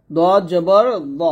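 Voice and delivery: দদ জবর দ slowly, দ heavy with rounded o; heavy "do" sound. Shown as a demonstration. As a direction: stretch দ as a full-mouthed "do", not "da". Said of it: "দা বলা যাবে না". (দ মোটা করে, গোল ও-ধ্বনিতে)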